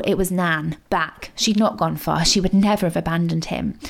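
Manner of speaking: ordinary delivery, nothing marked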